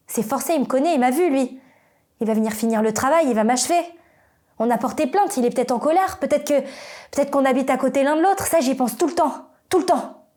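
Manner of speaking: rising, insistent worry; agitated dread. Acted. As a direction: spiral upward into obsessive fear. Fears the attacker will return.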